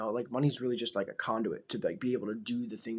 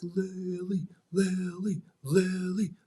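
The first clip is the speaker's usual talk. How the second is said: cheering her name; 7 semitones higher, much slower than usual. Retold or imitated. Cheering daughter's winning pass.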